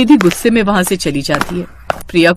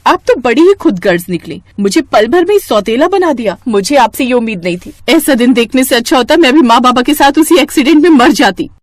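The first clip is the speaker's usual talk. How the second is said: hurt, raised angry accusation; 4 semitones higher, 3 dB louder than usual. Acted. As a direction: blame her sister in fury. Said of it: "वो गुस्से में बोलती है".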